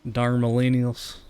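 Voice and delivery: mock old-timer, slipping slightly Southern; lightly put-on old Southern accent; attempted old accent. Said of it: "more southern accent than old accent".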